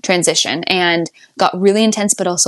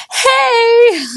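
planned cool greeting; 4 dB louder than usual. Retold or imitated. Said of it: "I had planned to be like".

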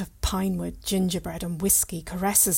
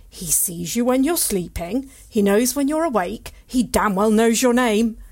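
builds louder to a boom; booming boast; 4 semitones higher, 7 dB louder than usual. Acted. Santa's brother booming a boast.

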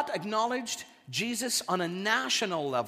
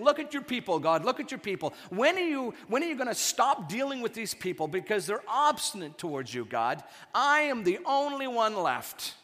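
a hint of a whiny, self-pitying cry to God; mock pity-party plea. Preacher voicing Elijah moaning to God under a tree, mild whiny plea. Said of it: "he's crying out to God, pity party".

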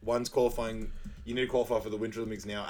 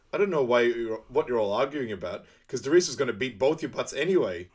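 louder acted movie quote; mock exasperated scolding; 2 semitones higher, 6 dB louder than usual. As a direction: break up a squabble, played lightly. Sanka scolding the arguing teammates, quoted.

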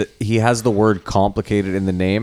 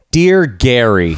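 mock formal; 3 semitones higher, much slower than usual. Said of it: "strongly worded email".

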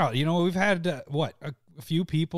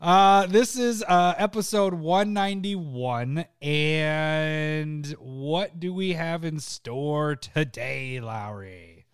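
show host intro; much slower than usual. Acted.

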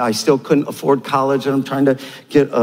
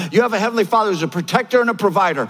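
quick restatement; 3 semitones higher, faster than usual. Shown as a demonstration. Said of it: "You gotta know that about God".

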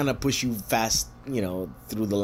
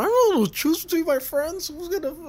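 much higher, put-on reluctant voice; mock whiny friend. Pouch refusing to pick between friends, high mock whine.

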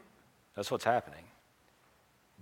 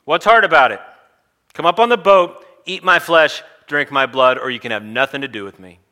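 high yell easing down into a firm ultimatum; confrontational shout; 5 semitones higher, 15 dB louder than usual. Acted. Jesus answering a doubting follower, confrontational shout. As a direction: shout the demands, then come down on the last one. Jesus snapping back at the objector.

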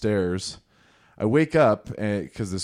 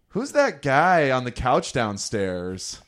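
drawn-out, higher mock girl's question; creeped-out girl's tone; 4 semitones higher, 3 dB louder, much slower than usual. Girl upstairs asking about a stranger, mock creeped-out. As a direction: imitate her creeped-out question, slowly, with that little inflection at the end. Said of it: "the creepiness to the tone, you know, that little inflection on the end".

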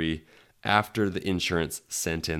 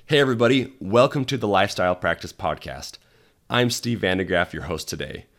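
hoarse, scratchy voice from a cold. Real, not acted. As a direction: talk through a sore, scratchy throat. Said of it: "Please excuse my scratchy voice".

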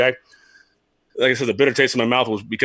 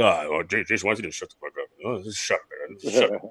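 very low, hushed grumbling manager; Jim Leyland impression; 6 semitones lower, 7 dB quieter than usual. Manager telling his former player to shut up, low quiet impression. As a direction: imitate the skipper telling you off under his breath. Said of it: "That's how he talks".

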